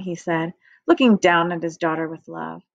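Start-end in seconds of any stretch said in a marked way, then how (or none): none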